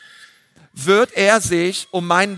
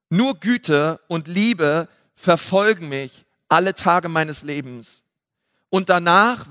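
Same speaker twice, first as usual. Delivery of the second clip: scripture reading. Acted. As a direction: read it like a prayer, unhurried. Reads psalm paraphrase aloud.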